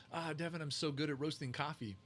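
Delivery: lightly voiced Romanian accent, proud; imitating her Moldovan accent. Imitating his Romanian-accented friend bragging, lightly accented. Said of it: "she's got this accent".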